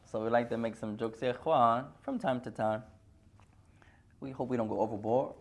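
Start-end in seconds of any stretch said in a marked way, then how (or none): 4.2-5.3 whispered under the breath; whispered aside. Real, not acted. Teacher confiding to his class about jokes, whispered. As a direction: let it slip out as a whisper.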